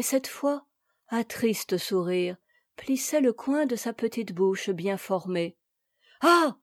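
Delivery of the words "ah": a bright, glad cry, higher; suddenly delighted, clap your hands; cheerful exclamation. A narrator's reading. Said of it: "s'écria tout à coup Lenge gaiement".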